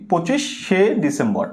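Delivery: "পঁচিশে" slowly, with the শে ending drawn apart; slow teacher's demo of "পঁচিশে". Shown as a demonstration. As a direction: stretch the শে of "পঁচিশে". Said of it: "আমি কিন্তু এটা লিখিনি".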